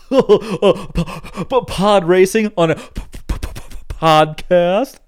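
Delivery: slow, laughing stammer; laughing stutter. Acted. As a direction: stretch it out through laughter. Playful stuttered pun, laughing.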